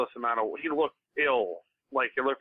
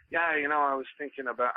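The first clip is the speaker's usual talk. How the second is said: half-hearted, thoughtful Liverpool accent; impression of a singer; 3 semitones higher than usual. Shown as a demonstration. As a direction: muse aloud in a poorly imitated English accent. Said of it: "he gets very, like, thoughtful".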